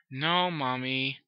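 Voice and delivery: slow, dragged-out reply; resigned daughter. Acted. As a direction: drag it out without any life.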